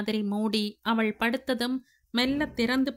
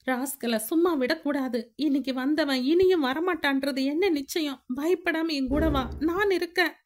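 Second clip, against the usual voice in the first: put-on higher, firm older man's voice; protective insistence; 5 semitones higher than usual. Siva pressing Anu to come to the police, insistent. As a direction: push her to go to the police.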